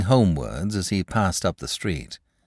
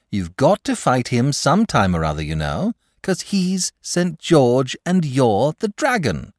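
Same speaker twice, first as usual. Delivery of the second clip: put-on higher, earnest boy's plea; lightly voiced pleading boy; 6 semitones higher, 3 dB louder than usual. A narrator's reading. Boy pleads with the dragon to fight, lightly voiced. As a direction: coax him, a little exasperated.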